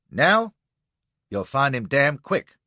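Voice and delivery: impatient commander snapping. Acted. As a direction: snap it at him. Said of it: "snaps Ward".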